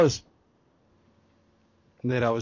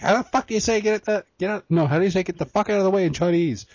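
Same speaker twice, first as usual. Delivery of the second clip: high, pushy demanding voice; mock exasperated character asking; acting out Stan's future character; 8 semitones higher, 4 dB louder than usual. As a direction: pitch it up and demand it like a brash character. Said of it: "Stan's future character is like".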